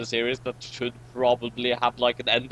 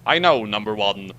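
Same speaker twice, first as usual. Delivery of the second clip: Picard; 4 semitones lower, 3 dB louder than usual. Acted. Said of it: "Picard said".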